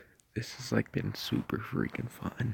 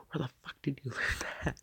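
higher, mock-appalled mother; imitated shocked mom; 4 semitones higher than usual. Streamer imitating a mom reacting to her kid, mock shock. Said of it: "their mom would be like".

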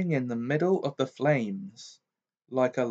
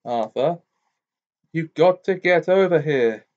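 higher, louder pressing voice; urgent wizard; 5 semitones higher, 7 dB louder than usual. A narrator's reading. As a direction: urge him to hurry. Diggory's urgent plea.

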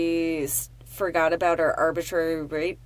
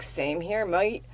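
put-on Australian accent; slower than usual. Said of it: "Australian accent".

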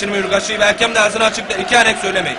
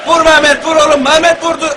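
excited shout; 7 semitones higher, 7 dB louder than usual. Real, not acted. Shot on goal, commentator yelling.

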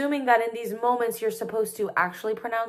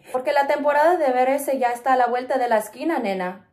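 quick, high, loud Puerto Rican line read; Puerto Rican accent; 4 semitones higher, 4 dB louder, faster than usual. Acted. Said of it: "in the Puerto Rican accent".

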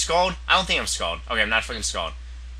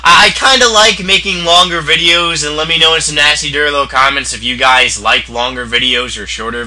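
loud vlog outro; 8 dB louder than usual. Acted. Outro to viewers.

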